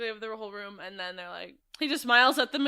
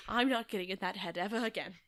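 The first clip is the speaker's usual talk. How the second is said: softer, imitated Scottish accent; 2 semitones lower, 6 dB quieter than usual. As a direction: retell it in a put-on Scottish accent. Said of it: "I can't stop doing this Scottish".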